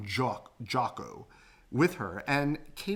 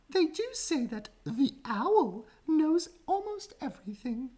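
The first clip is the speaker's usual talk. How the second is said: said slowly. A narrator's reading. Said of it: "she said slowly".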